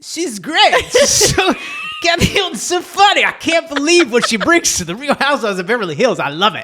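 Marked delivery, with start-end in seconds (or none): 0.0-3.2 high, loud cartoon announcer gush. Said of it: "Matt's using his cartoon voice".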